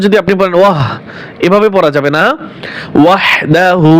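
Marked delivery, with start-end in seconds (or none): 3.0-3.9 ওয়াহদাহু with breathy throat ha. Shown as a demonstration. Teacher contrasting small and big ha. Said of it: "এটা হচ্ছে ছোট হা".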